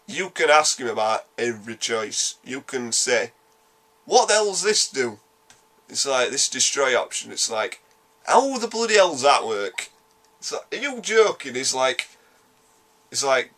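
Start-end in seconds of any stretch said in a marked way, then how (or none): 4.1-5.2 higher-pitched mock bafflement; acted-out puzzled demand; baffled questioning. Acting baffled questions to Star Child. 8.3-9.9 high-pitched exasperated disbelief; incredulous questioning. Retold or imitated. Acting baffled questions to Star Child. 10.7-11.6 high-pitched mock disbelief; incredulous. Acting disbelief at the choice.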